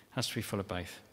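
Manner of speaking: a quiet restatement; soft echo. Real, not acted. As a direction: drop the voice and repeat it gently. Repeated softer.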